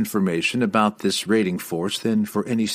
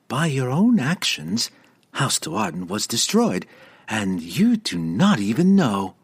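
hysterical cackle; 5 semitones higher than usual. Acted. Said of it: "Verna cackled hysterically".

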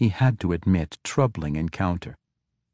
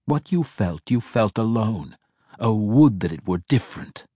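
mocking; 3 semitones higher than usual. A narrator's reading. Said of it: "His laughter mocked her outrage".

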